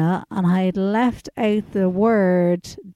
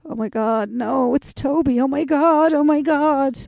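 mock panic; 4 semitones higher than usual. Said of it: "he was like".

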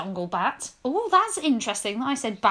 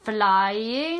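drawn out; 5 semitones lower than usual. Acted. Comic drawn-out completion of narration.

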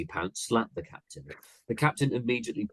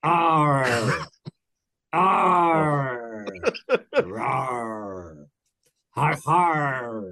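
high, loud pirate whoops and laughs; a whole crew roaring the fight on; rowdy pirate crew cheering; 6 semitones higher, 7 dB louder, much slower than usual. Acted. Pirate crew cheers the captain's wrestling match, loud whoops.

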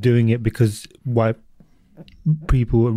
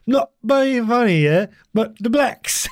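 put-on slow, higher East London old lady; East London impression; 11 semitones higher, slower than usual. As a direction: imitate an older East London woman, drawn out. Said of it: "so they'll be like".

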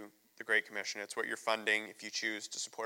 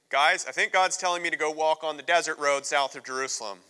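louder, eager announcement to the guys; excited Philip; 5 semitones higher, 9 dB louder than usual. Retold or imitated. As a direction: burst in with eager news. Philip voiced telling the brethren.

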